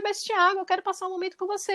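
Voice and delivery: pleading mother. Retold or imitated.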